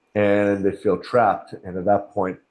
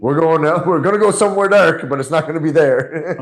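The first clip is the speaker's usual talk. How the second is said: loud, high and half laughing; defiant inner voice; 7 semitones higher, 7 dB louder than usual. Acted. Self to dark thoughts, going somewhere else, defiant.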